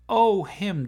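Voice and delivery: high bright brush-off; excited exclamation. Acted. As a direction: toss it off lightly. Car brushes off the question.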